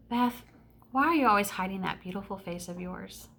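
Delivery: softly quoted, gentle and unhurried; tender compliment. Retold or imitated. Boy turning round in class to her, mildly tender. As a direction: lightly voice a boy's quiet, sincere question.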